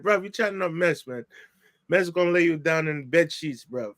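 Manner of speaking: mock-threatening English accent; imitated English accent. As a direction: lightly put on a London-style English accent. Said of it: "he's talking his English accent".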